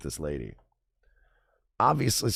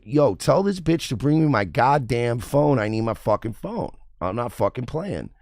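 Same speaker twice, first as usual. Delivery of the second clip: angry complaint; 4 semitones higher, 5 dB louder than usual. Retold or imitated. Complaining to Uber about the driver, angry. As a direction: spit each word at the support line.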